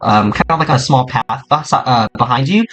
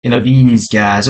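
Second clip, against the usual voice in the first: cautious friend; 2 semitones lower than usual. Acted. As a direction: warn a buddy half-mockingly. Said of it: "the other guy's like".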